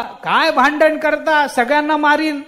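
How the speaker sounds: a strongman bellowing a threat to stop the fight; threatening wrestler. Acted. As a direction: bellow at them like the village wrestler. Wrestler threatens the quarrelling men.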